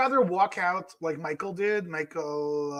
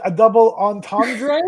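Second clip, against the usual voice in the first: incredulous drawn-out echo, louder; 7 dB louder, slower than usual. Real, not acted. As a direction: repeat it back in loud disbelief. Incredulous echo of co-host's word.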